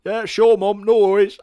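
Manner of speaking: loud, high, cheery reply; eager son. Retold or imitated. Son answering mum, loud and high. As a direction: shout back a keen yes.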